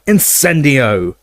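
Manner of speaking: huge Death Eater bellowing a fire curse; yelled spell. Acted. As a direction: drag out the curse as a yell.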